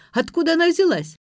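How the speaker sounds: high, loud amazed question; can't believe her eyes; astonished. A narrator's reading. Astonished at new pot.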